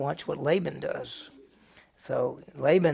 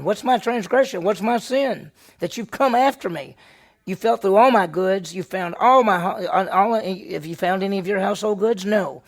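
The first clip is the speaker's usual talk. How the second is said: loud, raised voice, indignant questions; angry protest; 4 semitones higher, 8 dB louder than usual. Acted. Angry, loud accusation to Laban. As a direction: Jacob hurls his complaint at Laban, loud and angry. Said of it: "You got Jacob fussing".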